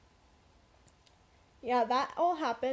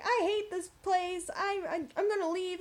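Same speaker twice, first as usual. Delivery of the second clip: higher-pitched mock upset whine; retold bawling; 6 semitones higher than usual. Upset worker telling a coworker she's quitting, retold bawling. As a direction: retell a tearful outburst, pitched up. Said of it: "So I start bawling".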